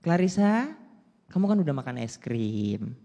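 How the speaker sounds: gentle explaining dad voice; lightly voiced patient father; reasoning daddy. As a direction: talk it through patiently.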